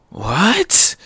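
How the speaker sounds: high, rising "what"; shocked reaction. Acted. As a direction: yelp it in mock disbelief.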